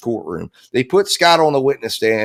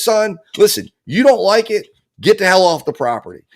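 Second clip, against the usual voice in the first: mock angry dad; 6 semitones higher than usual. Dad yelling at son, retold.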